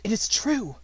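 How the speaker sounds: high, loud, amazed disbelief; can't believe her luck. Acted. Finding the coin, amazed.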